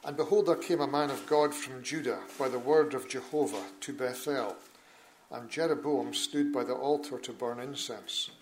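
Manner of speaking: measured, solemn Bible reading; formal public reading from the pulpit; scripture reading. Acted. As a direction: read the King James text with steady gravity. Reads scripture aloud in church.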